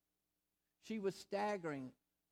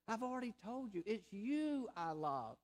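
lightly voiced, unhurried TV neighbor; a hint of a kindly children's-show host; preacher imitating a kindly TV neighbor as God; Mister Rogers; 2 semitones higher than usual. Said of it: "like Mister Rogers".

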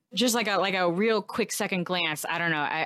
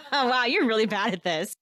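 mocking taunt. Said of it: "not be nice to it".

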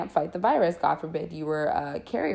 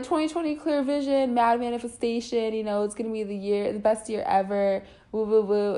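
mock hype; 3 semitones higher than usual. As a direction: parody the overexcited optimists. Mocking new-year hype.

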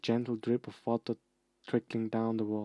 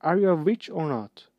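bellowing; 6 semitones higher, 9 dB louder than usual. Acted. Ron still bellowing.

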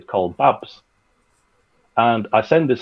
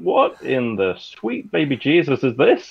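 retold astonishment, pitched up; astonished; 5 semitones higher than usual. Producer recalling first hearing the recording, mock astonished. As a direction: marvel in mock disbelief. Retelling his astonishment while listening.

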